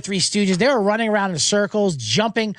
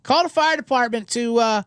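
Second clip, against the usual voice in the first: mock panicked girlfriend; 5 semitones higher than usual. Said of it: "She told my buddy Mike".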